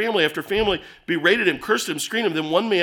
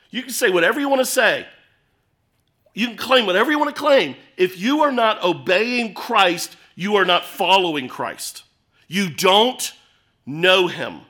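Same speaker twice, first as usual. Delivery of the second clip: forceful preaching; 3 dB louder than usual. Real, not acted. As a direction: preach it hard to the congregation. Preacher drives the point home.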